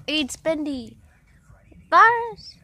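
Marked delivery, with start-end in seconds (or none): 1.9-2.6 whisper. Pretend. Odd aside while playing.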